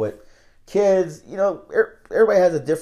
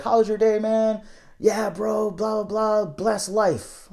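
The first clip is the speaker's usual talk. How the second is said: higher-pitched, easygoing friendly greeting; happy homeless man; 7 semitones higher, slower than usual. Retold or imitated. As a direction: imitate a cheerful guy chatting to passers-by. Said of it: "like, the happiest people in the world".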